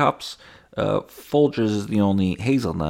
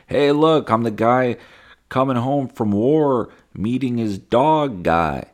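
louder, higher hammed-up pitch; proud showman; 5 semitones higher, 5 dB louder than usual. Influencer pitching his war-dog shtick, hammed-up pride. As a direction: show off the shtick. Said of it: "now you're just like".

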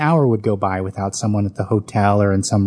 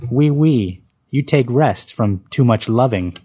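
put-on thick French accent; 2 semitones higher, slower than usual. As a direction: play the French waitress teasing in a thick French accent. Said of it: "responding in a thick French accent".

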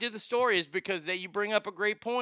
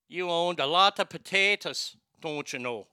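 light stage Irish lilt; Irish accent. Acted. Host teasing Irish ancestors about owning nothing, light Irish accent. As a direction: slip into a mock Irish brogue. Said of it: "the Irish accent's not bad".

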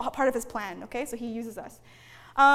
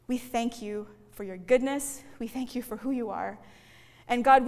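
closing prayer. Acted.

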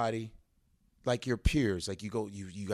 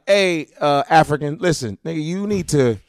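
Patrice impression; 9 dB louder than usual. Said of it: "Patrice is the only guy".

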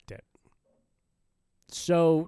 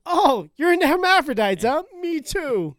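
mock flirty voice; 13 semitones higher, 8 dB louder than usual. Acting out a first date.

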